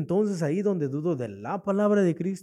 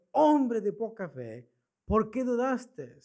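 retold rebuke, slow and higher-pitched; Cristo; 5 semitones higher, slower than usual. Christ grabbing Peter's hand, imitated slow rebuke. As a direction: reproach him slowly, drawing out each phrase. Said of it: "¿Cristo le reprende?".

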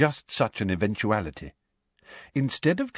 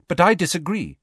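Hermione voice; 9 semitones higher, 4 dB louder than usual. A narrator's reading. Hermione objects.

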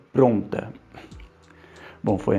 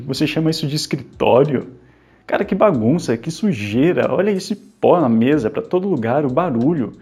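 indignant scolding; 5 semitones higher, 3 dB louder than usual. Acted. Scolding the messy office.

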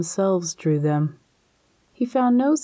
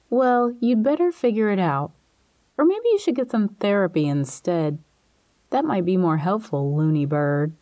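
smile in her voice. Acted. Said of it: "She had a smile in her voice".

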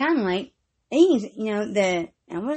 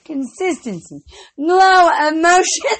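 slow drawn-out; 4 semitones higher, 5 dB louder, slower than usual. Acted. Playful drawn-out announcement.

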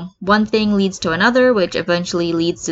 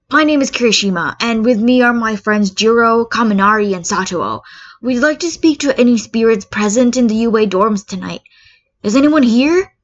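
solemn call to spirits; 4 semitones higher, 5 dB louder than usual. Acted. Speaker addressing spirits at Ouija.

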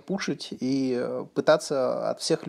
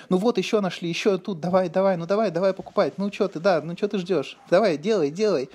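raised, pushy hurry-up voice; pushy pestering; 5 semitones higher than usual. Retold or imitated. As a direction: nag them to buy, impatiently. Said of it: "прибегает какой-то там Алексей".

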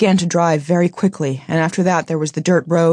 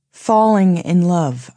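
slow and deliberate; slower than usual. Retold or imitated. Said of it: "I said".

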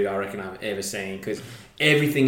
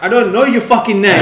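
a loud, high retold yell; mock angry shout; 9 semitones higher, 9 dB louder than usual. Podcaster retelling Serra's reply to Fabio, loud mock yell. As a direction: throw it back at him like Serra.

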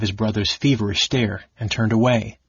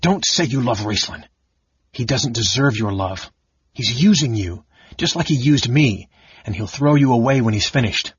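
losing control; 3 dB louder than usual. Acted. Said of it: "completely losing control of himself".

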